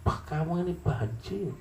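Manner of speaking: high, scornful teasing; high mocking taunt. Onlookers calling the wounded man a coward, high mockery. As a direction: sneer at a coward.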